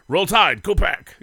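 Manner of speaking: loud, high mock rallying cry; fan cheer. Football fan hollering to fellow fans, loud mock cheer.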